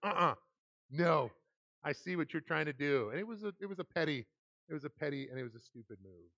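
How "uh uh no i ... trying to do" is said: louder, firm "no" with a knowing edge; wife's curt refusal. Retold or imitated. Wife turning off worship music, curt and louder. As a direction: shut it down, you see right through him. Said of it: "It's like".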